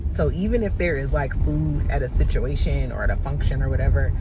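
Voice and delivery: loud over car noise. Real, not acted. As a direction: project over the road noise. Talking loudly while driving.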